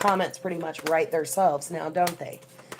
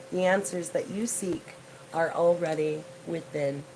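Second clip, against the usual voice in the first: card reading. Acted. Tarot reader reads the koala's message to viewers, measured card reading. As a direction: read it out as an unhurried oracle message.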